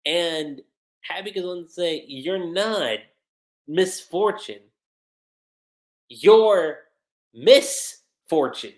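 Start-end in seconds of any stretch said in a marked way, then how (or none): 2.1-8.7 slow "You're Miss Fortune", with "Miss" split off from "Fortune"; wordplay stress. Acted. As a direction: set "Miss Fortune" apart as a name, pausing before the louder "You're". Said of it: "that was a good play on words".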